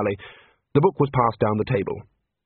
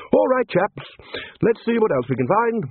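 high-pitched, hearty rallying; rallying call; 11 semitones higher than usual. A narrator's reading. Ridcully urging the wizards on, high and rallying. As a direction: call the group onward in a high voice.

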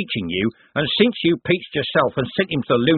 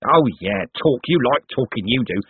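higher-pitched, ranting crook; spitting rage; 6 semitones higher, 3 dB louder than usual. A narrator's reading. Cribbins rants at Moist at knifepoint, spitting with rage. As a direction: spit out each resentful jab in a thug's voice. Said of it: "champing and spitting with rage".

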